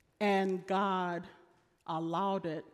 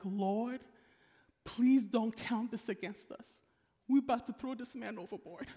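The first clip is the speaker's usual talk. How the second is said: pleading sailors; 3 semitones higher than usual. Acted. Sailors praying before throwing Jonah.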